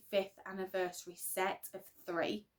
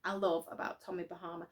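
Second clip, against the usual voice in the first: out of breath; faster than usual. Real, not acted. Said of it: "sorry, I'm out of breath".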